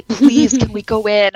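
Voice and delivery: begging. Retold or imitated. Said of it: "she was begging me".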